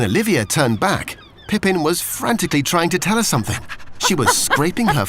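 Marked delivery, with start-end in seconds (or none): none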